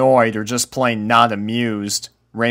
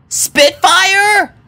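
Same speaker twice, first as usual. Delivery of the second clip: high, loud call across the barn; calling for a lost puppy; 8 dB louder than usual. A narrator's reading. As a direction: shout a name into the distance. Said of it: "Rainbow called out".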